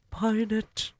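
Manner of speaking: high, loud witch command; screaming. Acted. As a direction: scream the order. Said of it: "screamed the Grand High Witch".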